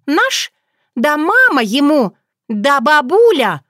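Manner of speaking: very high, loud flustered outburst; scandalized. Acted. Otrada hearing about the tsar, scandalized. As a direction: sputter with indignation.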